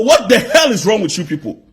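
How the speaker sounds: ordinary talk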